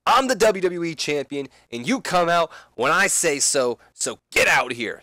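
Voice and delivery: loud, high, angry call-out; angry Seth Rollins. Acted. Wrestler calling out Sting to the ring, angry and loud. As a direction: yell for Sting to show himself. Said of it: "calls out Sting".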